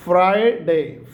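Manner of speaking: "Friday" split as "FRY-DAY"; two slow beats on "Friday"; careful, stretched "Friday"; American Friday. Shown as a demonstration. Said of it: "अब इसको आपने बोलना है".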